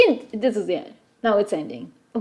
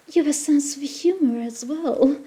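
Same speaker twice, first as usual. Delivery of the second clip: put-on British accent; 3 semitones higher than usual. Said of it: "Why is she British?".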